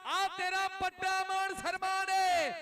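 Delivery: shouting to the player, slow; calling out. Real, not acted.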